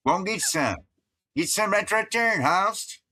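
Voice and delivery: high-pitched hillbilly dialect, words run together; Appalachian accent. Shown as a demonstration. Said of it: "we'd say".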